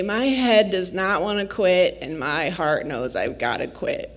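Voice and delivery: retold confession, dropping low and soft; quiet admission of defeat. Hiker admits to husband she must quit, subdued.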